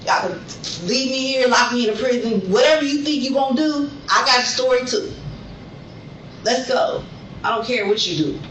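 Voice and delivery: building from firm to shouting; real anger swelling into a shout; angry rant. Real, not acted. Protesting arrest, escalating rant.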